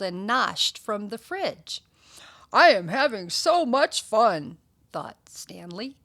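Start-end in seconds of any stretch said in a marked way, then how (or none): 2.5-4.6 delighted dog. Acted. Stanley's gleeful thought voiced.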